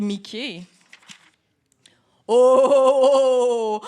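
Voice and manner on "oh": loud surprised oh then wondering; surprised storyteller pointing up; startled exclamation. Acted. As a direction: gasp at the rumble above. Startled look up at rumble.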